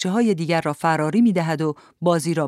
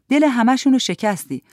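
higher-pitched mother's reproach; scolding mother; 6 semitones higher, 4 dB louder than usual. A narrator's reading. Mother to daughter back home early, scolding. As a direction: scold the child from across the room.

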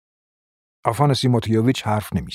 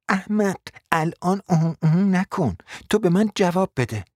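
higher, sharp scolding; 8 semitones higher than usual. A narrator's reading. Wife snapping at her dim husband, sharp scolding. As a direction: snap at the fool.

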